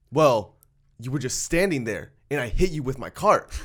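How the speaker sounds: mildly accusing retold complaint; pissed off. The customer blaming the worker he hit, mildly pissed off. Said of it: "he's, like, still pissed off".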